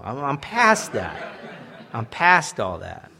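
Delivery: laughing it off; half-laughing joke. Real, not acted. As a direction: chuckle through the words. Joking about past, laughing.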